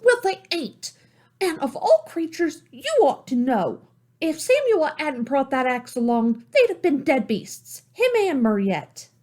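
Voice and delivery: put-on high, indignant girl's retort; angry young girl. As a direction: snap back, offended. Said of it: "Salome's temper rose".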